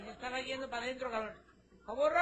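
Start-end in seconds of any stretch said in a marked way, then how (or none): 1.9-2.2 high, loud yell for the donkey; high-pitched cry for help; calling out. Acted. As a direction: scream his name for rescue. Ant calls donkey for help.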